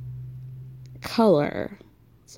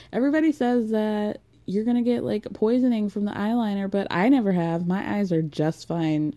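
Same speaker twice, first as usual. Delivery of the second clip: put-on light Southern accent. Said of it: "I'm doing a Southern accent".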